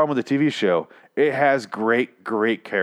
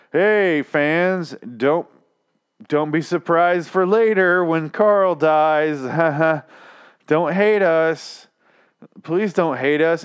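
louder, higher, slow pleading showrunner voice; mock showrunner plea; 6 semitones higher, 4 dB louder, much slower than usual. Mocking the writers begging fans not to hate them, slow and pleading. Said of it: "but in, like, a".

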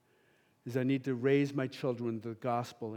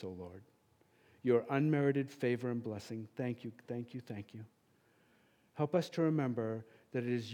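closing prayer. Real, not acted.

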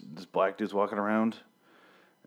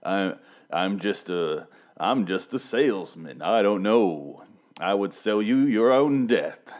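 put-on slow, louder old-timey radio announcer; 4 dB louder, slower than usual. Reviewer imitating the character's slow old radio voice. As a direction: drag each word out like a dubbed radio villain. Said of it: "trying to do an old radio voice".

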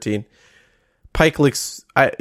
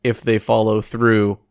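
dictating; 2 semitones lower than usual. Retold or imitated. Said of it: "I wrote a note right here".

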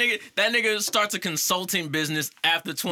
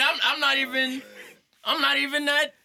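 laughing protest; 5 semitones higher than usual. Real, not acted.

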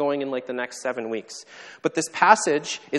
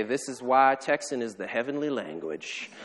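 Texan drawl; 2 semitones lower, 3 dB quieter than usual. Retold or imitated. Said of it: "he would say to us with his drawl".

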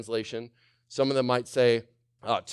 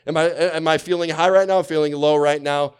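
louder, questioning highs and lows; anxious questioning; 4 semitones higher, 8 dB louder than usual. Acted. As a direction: toss between moods like a roller coaster. Continuing the roller-coaster act.

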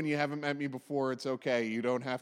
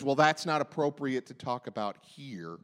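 lower, lightly pursed disapproval; a hint of prim policing in a lowered voice; 5 semitones lower than usual. Person policing everyone's behavior, lightly pursed disapproval. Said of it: "with a pursed voice and says".

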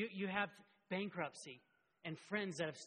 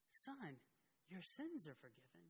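tender, soft; 9 dB quieter than usual. Retold or imitated. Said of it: "Jesus is saying".

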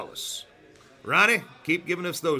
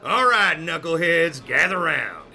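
coach calling out; 5 dB louder than usual. Acted. Coach calling team together.

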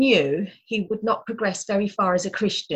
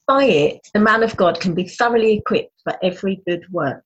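starts even, ends much louder; building emphatic reading; 6 dB louder than usual. Shown as a demonstration. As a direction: read with rising force to the end. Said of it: "I'm gonna read it again".

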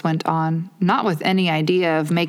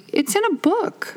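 very gently. A narrator's reading. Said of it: "Alice said very gently".

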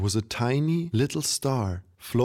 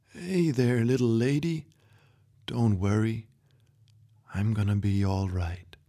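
put-on a kind grandpa easing a frightened girl; gentle old grandpa. Grandpa wakes and comforts her.

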